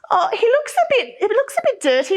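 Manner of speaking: mock concern. Teacher pretends puppet is dirty.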